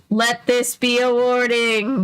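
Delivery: slow, bored ghost voice; a lightly voiced eerie ghost, slow. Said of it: "spoke in an eerie, deep voice".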